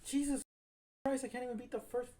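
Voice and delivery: high, loud outburst of disbelief; gamer's high-pitched incredulous outburst; exasperated disbelief. Real, not acted. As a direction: cry out in real dismay at the game. Losing badly in the game.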